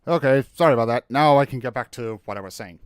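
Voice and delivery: breathing heavily after running; panting from the stairs. Real, not acted. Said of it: "I'm kind of breathing very heavily".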